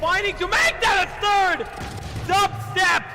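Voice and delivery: loud rising hype call; excited shout. Real, not acted. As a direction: shout the play, full energy. Caster shouting on third kill.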